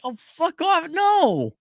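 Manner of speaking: high, mocking whine; mock crying girlfriend. Man mimics girlfriend crying at the gas station, high mock whine. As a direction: parody her crying in a high squeal. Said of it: "she started crying like".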